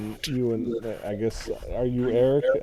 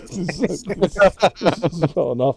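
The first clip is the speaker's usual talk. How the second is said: innkeeper voice; 7 semitones higher, 7 dB louder, slower than usual. Acted.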